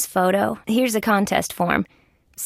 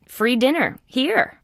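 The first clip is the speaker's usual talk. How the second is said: higher-pitched hawker's call; 6 semitones higher, slower than usual. Acted. Offering diners a free dinner, high sing-out call. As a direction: tout it to passing customers. Calling out a contest to customers.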